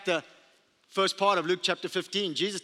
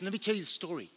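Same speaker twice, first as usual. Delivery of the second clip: eager storyteller; 6 dB quieter, faster than usual. Retold or imitated. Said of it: "And she says".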